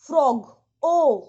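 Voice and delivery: "फ्रॉग" with a short open o; "फ्रॉग" said loud, its vowel a plain short o; short O sound. Shown as a demonstration. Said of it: "ओ का sound आया".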